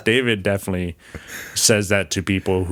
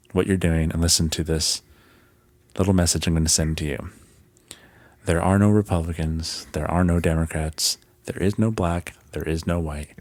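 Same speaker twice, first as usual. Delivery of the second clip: calming; 2 semitones lower than usual. Real, not acted. Host sends a thirty-second message to the world, calming. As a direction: calmly reassure the whole world, phrase by phrase. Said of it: "I said it in a calming way".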